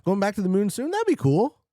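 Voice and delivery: high, loud eager exclaim; excited. Real, not acted. Streamer dreaming of going back to the moon, excited. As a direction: let the excitement jump out.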